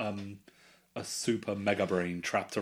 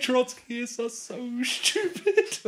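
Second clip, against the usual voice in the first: very high, loud laughing squeal; helpless laughter; 8 dB louder, much slower than usual. Real, not acted. After reciting the Trotskyist's poem, helpless laughter. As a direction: squeal it out slowly through laughter.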